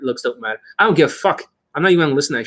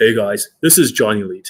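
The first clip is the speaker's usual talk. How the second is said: louder voice, much lower pitch; 3 semitones lower than usual. Showing viewers how his voice has changed, in a deeper, louder voice. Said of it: "Not only is it louder, but it's also deeper".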